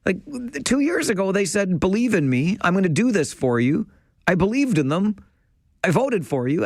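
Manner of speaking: a voter's heated on-air plea for respect; heated rant. Real, not acted. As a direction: vent your real frustration at the politicians, pitch climbing. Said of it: "I got a little heated or animated or passionate there".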